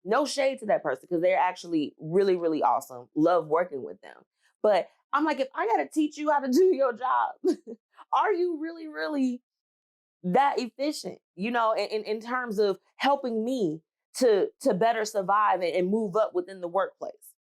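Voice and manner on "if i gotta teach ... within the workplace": high, mocking disbelief with a laugh; incredulous scoff. She mocks the colleague who got her promotion, high and scoffing. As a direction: laugh at the idea they're efficient.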